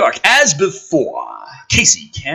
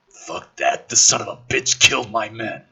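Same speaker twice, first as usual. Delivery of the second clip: lower, grim tough guy; lightly voiced gruff soldier; 4 semitones lower than usual. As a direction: growl it like a bitter soldier. McKenna voiced, angry.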